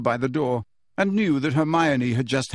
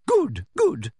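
higher, sugary approval; pleased Umbridge; 4 semitones higher than usual. Acted. Umbridge pleased with captives, sugary. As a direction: purr approval.

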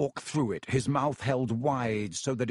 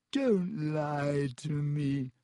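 tearful gasp; 3 semitones higher, much slower than usual. Acted. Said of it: "Myrtle gasped".

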